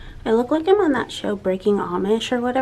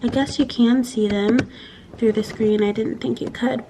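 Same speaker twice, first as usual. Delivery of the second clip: normal talking voice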